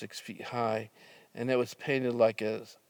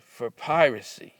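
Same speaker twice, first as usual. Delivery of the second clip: stern cop; 2 semitones higher, 5 dB louder than usual. Retold or imitated. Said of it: "he said".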